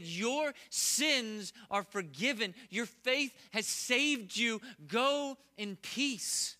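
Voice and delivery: slow, gentle words of forgiveness; gentle Jesus. Acted. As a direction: speak pardon slowly and kindly. Jesus speaks to weeping woman.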